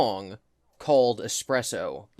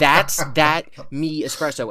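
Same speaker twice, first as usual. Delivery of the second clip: mock Jar Jar read; 3 semitones higher, 5 dB louder, slower than usual. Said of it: "someone doing a racist ESL accent or Jar Jar".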